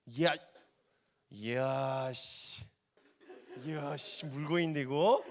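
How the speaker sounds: hushed, low astonished mutter; mock amazement. Jesus stunned by the woman's answer, hushed amazement. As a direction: marvel under the breath.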